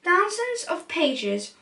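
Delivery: lively storybook read-aloud; animated rhyming picture-book narration; reading to children. A narrator's reading. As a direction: read it like bedtime story time.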